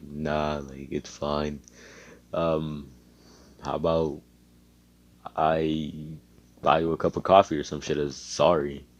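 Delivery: low flat emotionless voice; monotone. Acted. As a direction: say it with no feeling at all. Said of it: "why are you so monotone".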